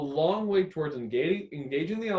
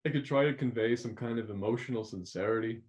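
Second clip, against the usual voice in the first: speaking quietly; 7 semitones lower, 6 dB quieter than usual. Shown as a demonstration. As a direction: lower and softer, intimate. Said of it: "just by speaking quietly".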